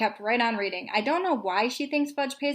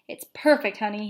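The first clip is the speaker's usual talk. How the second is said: mock dad voice, a bit louder and punchier; imitating father; 3 dB louder than usual. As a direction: Fudge copying his father. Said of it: "imitating my father".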